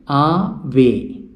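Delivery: "Ave" split into ah, vay; syllable by syllable. Shown as a demonstration. Teacher counting two syllables for learners, "Ave" broken as ah - vay. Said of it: "we know there are two syllable".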